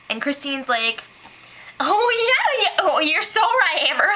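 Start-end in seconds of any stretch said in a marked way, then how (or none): 1.8-4.1 lightly voiced eager agreeing friend, pitched up; mock gushing yes-girl, a touch higher; hint of a sugary over-agreeing housemate; Christine impression. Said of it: "That's my Christine impression".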